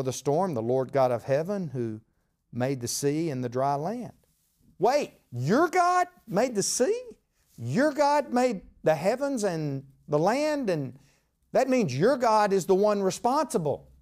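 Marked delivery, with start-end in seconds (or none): 4.8-10.7 slow, higher, disbelieving double take; astonished sailors. Acted. Sailors stunned to learn Jonah's God made the sea, astonished. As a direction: let it dawn on you, drawn out.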